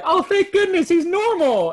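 high, loud mock cry of relief; hammed-up parental relief; relieved parents. Parents' relief, voiced in story.

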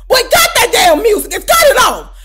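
irritated outburst. Retold or imitated. Irritated by his horrible music.

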